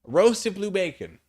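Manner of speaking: mock announcement. Real, not acted. Mock announcing own roast.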